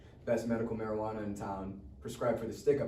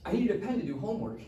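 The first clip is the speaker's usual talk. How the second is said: higher, quick flustered lying; nervous excuses; 6 semitones higher than usual. Acted. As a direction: talk fast to cover it up. Caught by mom, making excuses.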